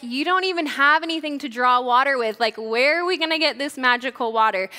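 lightly mocking, incredulous retort; almost mocking. Woman at the well doubting Jesus, almost mocking. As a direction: toss it out with a touch of mockery. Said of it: "She's almost mocking Jesus".

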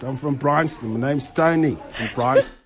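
a hint of a white South African suburban guy, self-satisfied; white middle-class South African accent. Shown as a demonstration. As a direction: introduce yourself like a white Bryanston local. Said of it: "a white middle class accent".

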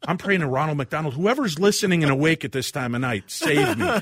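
comic desperate praying that builds in pitch; mock desperate prayer. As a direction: beg the heavens, hammed-up.

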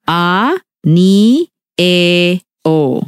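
아, 니, 에, 오 separated syllable by syllable; 아 ... 니 ... 에 ... 오, each syllable on its own beat; staccato. Shown as a demonstration. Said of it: "is it 아 or an?".

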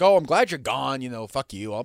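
slow, dismissive send-off; imitating a bitter ex-colleague; mock bitter goodbye. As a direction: drawl out a fake-proud farewell. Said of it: "he's like".

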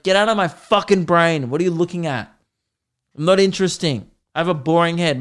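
hammed-up annoyed rant; mock exasperation. Man in a shopping centre ranting at a staring kid, mock exasperated. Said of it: "I'm just like".

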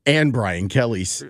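imitated Louisiana accent. Co-host mimicking a coach's new accent, mock Louisiana accent. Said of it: "affect Ed Orgeron's accent".

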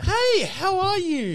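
celebrity greeting. Acted. In character as Heath Ledger.

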